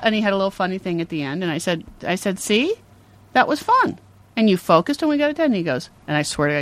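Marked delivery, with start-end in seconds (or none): 2.4-5.5 put-on high, upbeat praise for a child; encouraging mother. Mother praising her son after homework, encouraging. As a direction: show a kid it went well.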